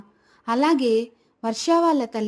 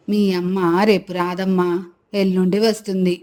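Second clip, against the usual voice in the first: grandmother, soothing; 3 semitones lower than usual. Acted. Grandmother answering the child, low and soothing. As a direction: lower grandmother voice.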